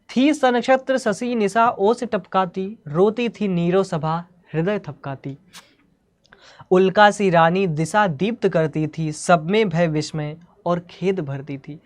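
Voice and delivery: measured verse reading; deliberate, declaimed poem lines; poetry recitation. Acted. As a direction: recite it as rhythmic Hindi verse.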